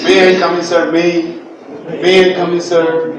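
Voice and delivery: student asking, a bit high and laughing; mock student. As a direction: play the polite student. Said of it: "The students say".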